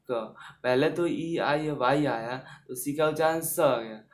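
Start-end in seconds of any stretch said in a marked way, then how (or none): 0.1-0.3 lone "क", hard k with a short vowel; teacher's demonstration of "क"; C read as "क". Shown as a demonstration. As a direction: answer with the isolated k sound "क". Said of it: "क्या करते हैं".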